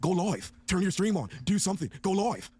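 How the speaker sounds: hint of a mimicked West Coast accent; put-on West Coast accent. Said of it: "wanna be from the West Coast".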